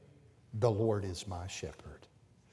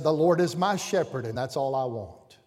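put-on boy blurting it out louder; proud shout of the verse; 7 dB louder than usual. Little boy on the platform blurting out his verse loudly. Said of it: "And in a loud voice".

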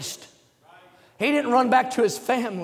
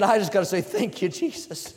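hushed thanks; 4 semitones lower, 6 dB quieter than usual. Acted. Leper's quiet thanks retold.

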